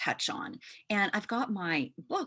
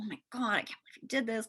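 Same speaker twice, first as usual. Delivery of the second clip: quick, exasperated mock self-scolding, a touch higher; 3 semitones higher, much faster than usual. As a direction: rattle it off like you're annoyed at yourself. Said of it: "I was just saying to myself".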